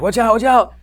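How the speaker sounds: high, mock warning call; retold warning. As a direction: imitate someone calling a warning. Voices the jumpers' warning.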